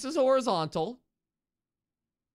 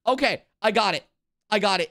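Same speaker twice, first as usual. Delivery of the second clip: louder, eager repeated claim of victory; excited triumph; 7 dB louder, faster than usual. Real, not acted. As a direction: chant it like you just cracked it. Streamer solves the puzzle.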